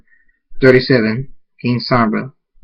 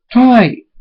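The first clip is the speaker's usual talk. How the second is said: high, loud greeting; delighted shout of a name; joyful call; 11 semitones higher, 6 dB louder than usual. Acted. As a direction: cry out to a reunited sister. Brother greets sister joyfully.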